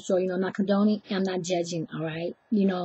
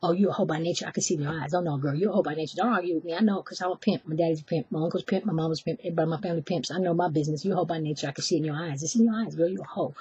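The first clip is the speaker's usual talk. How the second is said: smooth pimp impression; 2 semitones lower, faster than usual. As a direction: run it down like a pimp schooling someone. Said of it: "he's going like this, exactly like this".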